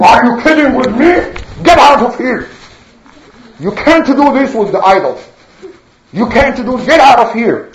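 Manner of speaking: acted outrage, lightly heated; indignant. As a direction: scold and send him packing. Acted idol servant throws Nuh out.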